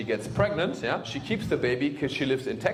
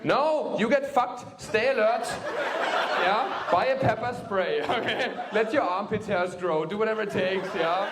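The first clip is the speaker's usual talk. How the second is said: urgent advice; 8 semitones higher than usual. Real, not acted. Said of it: "urgent advice".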